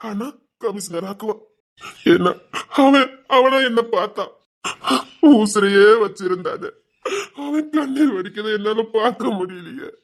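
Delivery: grieving, voice full of tears; tearful lament. Acted. Father grieving for the man he cannot see, crying. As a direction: lament through sobbing breaths. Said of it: "உட்கார்ந்து அழுதுட்டு இருக்கீங்க".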